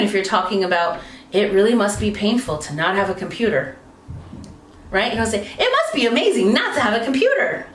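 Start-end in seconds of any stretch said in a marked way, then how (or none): 1.3-3.8 morose. Shown as a demonstration. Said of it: "more morose". 5.6-7.7 upbeat. Shown as a demonstration. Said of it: "See how different that is?".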